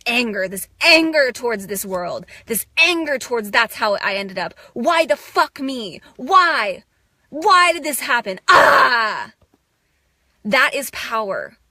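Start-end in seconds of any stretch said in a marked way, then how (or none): 4.7-9.3 louder, rising angry protest ending in a yell; angry outcry. Real, not acted. Raging at the world about her past: angry outcry. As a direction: let the hurt burst out as fury.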